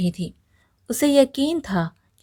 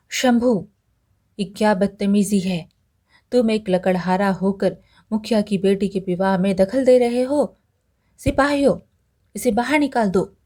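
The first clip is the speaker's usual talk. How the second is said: angry village headman. Acted. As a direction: scold the intruder, then call the soldiers. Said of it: "मुखिया ये सुनकर गुस्सा हो गए". (गुस्से में डाँटते हुए)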